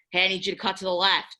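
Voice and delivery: a teammate called out fast, not shouted; brisk field call. Retold or imitated. Calling a cut to a teammate on the field, brisk and quick. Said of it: "if I'm yelling".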